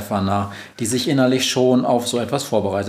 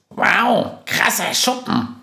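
high-pitched, wowed exclamation; impressed and astonished; amazed; 9 semitones higher, slower than usual. A narrator's reading. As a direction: marvel at the place in a high voice. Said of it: "staunt Günther".

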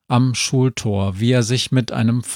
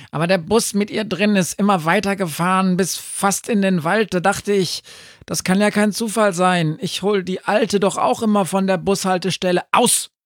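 much higher, excitable talking dog; barking dog; 10 semitones higher, faster than usual. A narrator's reading. Sami the dog explains himself to the dwarf, barking. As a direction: rattle it out fast and high. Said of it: "bellte Sami".

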